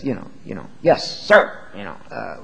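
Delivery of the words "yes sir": exaggerated yes sir in a changed voice; obey on the surface, sneer underneath; sarcastic yes sir. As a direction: soldier to a hated general, sarcastic. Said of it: "like you would say to your commanding general if you hated his guts".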